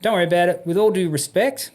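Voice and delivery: retold curt retort; short, curt. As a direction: firmly tell off a superior. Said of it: "I was just really short".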